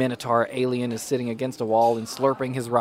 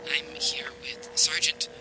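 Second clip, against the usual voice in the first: news reporter voice; 4 semitones higher, 4 dB quieter than usual. Acted. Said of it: "And the reporter says".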